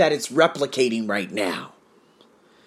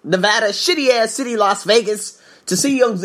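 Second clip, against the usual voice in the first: higher-pitched, mildly indignant tirade; imagined angry rant; 6 semitones higher than usual. Pretend. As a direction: keep up the pretend rant, stretching the insults. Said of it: "you know how angry I would be".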